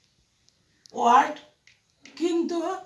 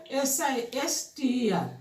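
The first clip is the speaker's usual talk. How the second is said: slow, measured spelling aloud; 3 dB quieter than usual. Shown as a demonstration. Teacher spelling "sister" for pupils, slowly letter by letter. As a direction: give each letter its own slow beat.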